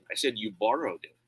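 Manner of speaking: "borrowed" lifted in pitch as a correction; emphatic "borrowed", falling after; stress on BORROWED. Shown as a demonstration. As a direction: lean on the word "borrowed". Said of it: "I change the word stress".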